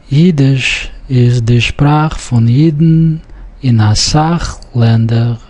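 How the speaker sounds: Sprache and Sach with a rough ch; careful ch in Sprache; ch sound. Shown as a demonstration. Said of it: "note the pronunciation of ch sound".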